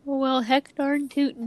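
put-on slow, drawn-out folksy Northern accent; playful Northern "heck darn tootin'". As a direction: echo the Minnesota-style movie dialect. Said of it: "love the way that they speak".

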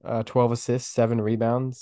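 raspy, sick voice; hoarse with a cold. Real, not acted. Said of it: "excuse the, uh, the raspy voice".

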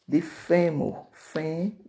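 "fêmur" slow and loud on its first syllable; teacher isolating "fém"; stressed syllable demo. Shown as a demonstration. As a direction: lean on "fém" in "fêmur", then give "fém" alone. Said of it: "a sílaba tônica das palavras".

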